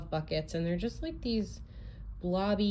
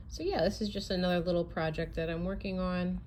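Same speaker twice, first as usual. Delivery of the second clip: whispering; faster than usual. Real, not acted. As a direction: whisper it quickly so not to wake anyone. Quiet aside while baby near.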